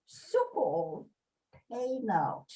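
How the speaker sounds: broad Yorkshire recitation, phrase by phrase; Yorkshire accent. Pretend. Reciting a Yorkshire Tykes motto to the group on request, Yorkshire accent. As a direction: put on your best Yorkshire accent. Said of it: "in my best Yorkshire accent".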